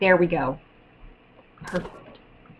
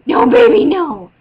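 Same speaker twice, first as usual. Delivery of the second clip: kissing it better; 7 semitones higher, 8 dB louder than usual. Real, not acted. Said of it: "I'm babying an eleven-year-old".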